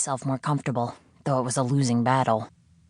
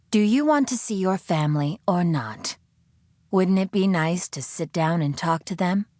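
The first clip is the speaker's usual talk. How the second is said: higher, impatient coaxing; pressing captor; 4 semitones higher than usual. Acted. The captor pressing the prisoner, higher impatient coaxing. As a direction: push her for an answer.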